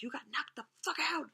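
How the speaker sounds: hushed, gloating movie quote; whispered taunt. Retold or imitated. Dad quoting Friday after Mom walked away, whispering. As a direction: whisper it like a secret jab. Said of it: "whispering, he's like".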